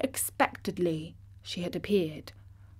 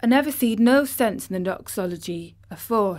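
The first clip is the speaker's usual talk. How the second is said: put-on rough hoarse old gardener; hoarse Yorkshire old man. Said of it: "he said hoarsely".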